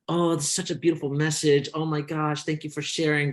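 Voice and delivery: high mock gushing voice; mock the sappy commenters. Mocking online commenters, high gushing voice. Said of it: "the comments are all like".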